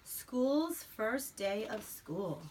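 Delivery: slow, drawn-out title reading; title read aloud. Acted. Mother to child, reading the title slowly. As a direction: announce the book title slowly.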